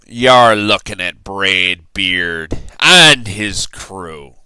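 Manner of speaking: slow conspiratorial whisper; pirate whisper. A narrator's reading. Captain introducing his crew to the boy, slow whisper. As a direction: lean in and whisper it like a secret.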